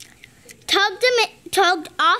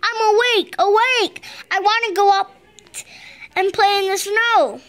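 crying out; 4 semitones higher, faster than usual. Acted. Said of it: "cried Froggy".

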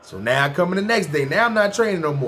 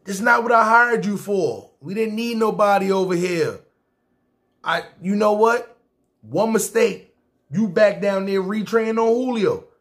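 mock boss scolding; 4 semitones higher than usual. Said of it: "He like".

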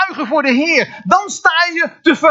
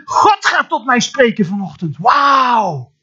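acted expectation; 2 semitones lower, slower than usual. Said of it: "de verwachting".

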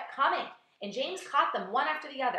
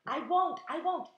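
high, hurried assurance; 8 semitones higher than usual. A narrator's reading. James reassuring the begging earthworm.

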